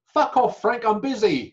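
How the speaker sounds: high, loud snapped punchline; loud comic dismissal of a famous friend; mock brush-off. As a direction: bark the put-down for the laugh. Rickles' punchline insult.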